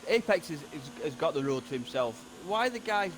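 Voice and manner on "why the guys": annoyed. Real, not acted. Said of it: "that annoy me".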